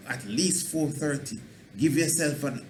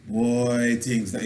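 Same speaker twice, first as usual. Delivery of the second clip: defeated lament; 3 semitones lower, slower than usual. Shown as a demonstration. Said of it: "After me".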